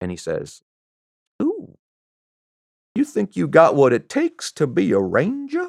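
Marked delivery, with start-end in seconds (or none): 1.4-5.6 bad, weak put-on Southern accent, high and swooping. Retelling what a man at the office said: bad Southern accent. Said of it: "I don't have a very good Southern accent".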